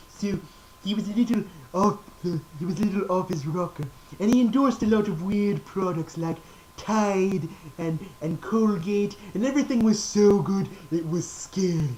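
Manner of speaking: lightly voiced horror legend; a hint of the old horror star; Vincent Price. Doing the late horror star, lightly voiced. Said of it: "horror icon is that of Vincent Price".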